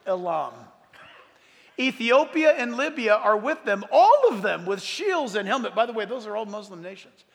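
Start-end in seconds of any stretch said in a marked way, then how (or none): 1.8-5.7 loud, raised proclamation of a Bible passage; preacher declaiming scripture; scripture reading. A narrator's reading. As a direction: read the prophecy out forcefully to the room. Reads scripture aloud to congregation.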